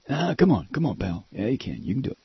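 lightly imitated coaxing pal; Bart Kopp. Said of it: "I do better Bart Kopp".

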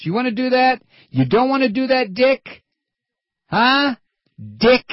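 high, loud, jabbing questions; angry taunting shout. Real, not acted. Radio host goading Cheney, loud and high taunting. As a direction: bait him hard, voice way up.

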